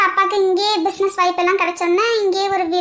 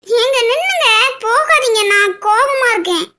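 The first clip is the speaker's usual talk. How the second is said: tearful plea. Acted. Wife pleading him not to leave.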